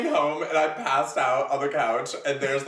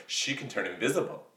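conspiracy theorist; 3 semitones higher, 4 dB louder than usual. Retold or imitated. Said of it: "sounds like a person who's giving a government conspiracy theory".

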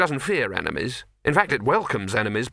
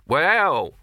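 put-on grumpy old man; 5 semitones higher, 4 dB louder than usual. Pipe man hesitates.

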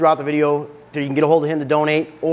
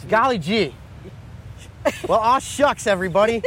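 fake wholesome; 5 semitones higher than usual. Joking clean-talk persona.

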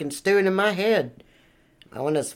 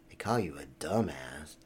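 low put-down in a second voice; low mocking aside; mocking alter ego; 12 semitones lower, 12 dB quieter than usual. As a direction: answer yourself as a sneering heckler. Answers himself in another voice.

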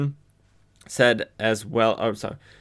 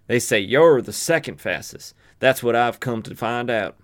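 challenging gunslinger; 3 semitones higher than usual. Acted. Silver Ames challenging the marshal, gunslinger voice. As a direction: announce yourself as the challenger, deliberate and pointed.

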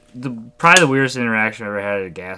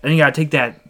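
higher, louder insistent truck enthusiast; put-on eager stranger voice; Frankie; 5 semitones higher, 5 dB louder than usual. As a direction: imitate a guy pushing his truck makeover. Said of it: "And he goes".

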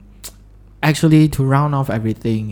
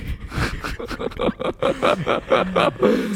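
breathy laugh; 11 semitones higher, 4 dB quieter than usual. Real, not acted. Laughs after joke name.

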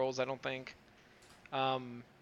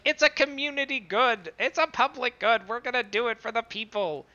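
louder, higher, preachy idealist; earnest speech; 7 semitones higher, 7 dB louder than usual. Retold or imitated. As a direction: proclaim it like a campaign speech. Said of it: "And she's like".

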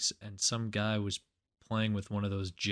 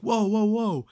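high, louder mock protest; alarmed whoa; 12 semitones higher, 8 dB louder than usual. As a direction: back off someone charging at you. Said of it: "he's like".

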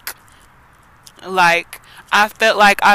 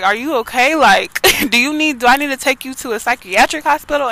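lightly voiced concerned mom, higher pitch; worried mom; 4 semitones higher, faster than usual. Mom asking her daughter about psychiatric hospital, mildly worried. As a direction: imitate a mother anxiously checking on her child.

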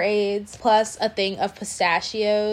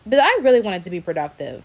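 yawning; 4 dB louder, faster than usual. Real, not acted. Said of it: "I'm so sorry for all the yawning".

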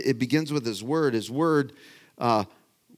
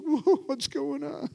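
startled whoa; slower than usual. Retold or imitated. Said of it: "And Wendy's like".

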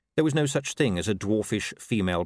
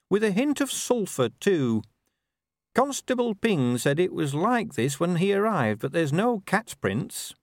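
brisk, higher dwarf voice reporting to her boss; eager young officer, pitched up; dwarf officer Cheery; 8 semitones higher than usual. Acted.

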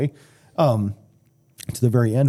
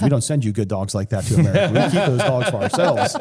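imitated German accent, building louder; 2 semitones higher, 3 dB louder than usual. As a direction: play the German visitor, accent lightly put on. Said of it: "he had that German accent".

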